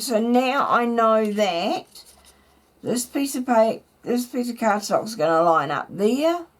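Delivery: hoarse morning voice; a slightly croaky throat. Real, not acted. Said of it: "apologies for the croaky voice this morning".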